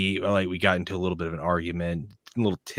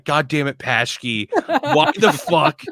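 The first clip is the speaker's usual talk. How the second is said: angry yell; 6 semitones higher, 8 dB louder, slower than usual. Retold or imitated. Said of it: "he'll be like".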